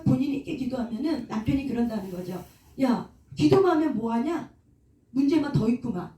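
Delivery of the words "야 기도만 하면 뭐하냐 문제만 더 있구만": mildly mocking challenge. Husband scoffing at wife's prayers, mildly mocking. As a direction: imitate a scoffer needling someone who prays. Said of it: "이렇게 조롱한다는 거죠".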